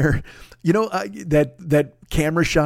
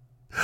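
gasp; 9 dB quieter than usual. Retold or imitated. Hears a gasp in the stall.

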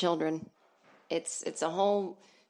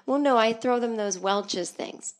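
higher, louder, slow indignant mom voice; mocking the live laugh love lady; 4 semitones higher, 6 dB louder, slower than usual. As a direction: drag out the defensive correction. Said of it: "live, laugh, love, lady".

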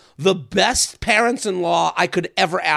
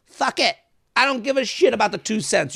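put-on careless rich kid, pitched up; 4 semitones higher than usual. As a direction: toss it off like a spoiled heir. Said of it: "You have to sound like Johnny Rich Kid".

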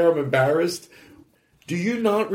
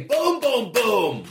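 blurting the answer; 2 semitones higher, much slower than usual. Pretend. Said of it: "I'm so tempted to say".

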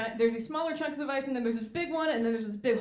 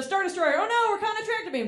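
much higher panicked pilot; mock alarm; 9 semitones higher, 4 dB louder than usual. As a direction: gasp at the tractor beam. Pilot caught by Star Destroyer.

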